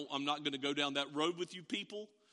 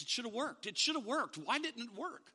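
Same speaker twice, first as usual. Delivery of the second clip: mother protesting to Jesus; 6 semitones higher than usual. Retold or imitated. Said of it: "Mom is explaining to Jesus".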